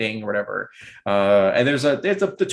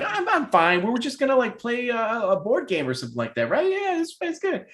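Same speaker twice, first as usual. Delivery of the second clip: nervous laughing brush-off; 12 semitones higher than usual. Acted. Belle nervously brushes off sister.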